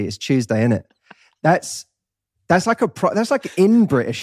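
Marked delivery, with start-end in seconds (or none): 0.0-0.8 Tuesday starting with a 'chew' sound; Tuesday as 'Chewsday'. Shown as a demonstration. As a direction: run Tuesday, innit together, Tuesday opening like chew. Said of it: "with chew".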